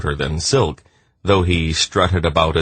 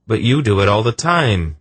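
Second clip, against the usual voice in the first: indignant "but you do it too"; accusing; 6 semitones higher than usual. A narrator's reading. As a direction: throw it back at her in reproach. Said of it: "he accused".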